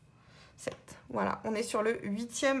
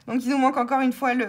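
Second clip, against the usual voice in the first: fast exasperated; 2 semitones higher, 9 dB louder, much faster than usual. Real, not acted. Missing vowels once more.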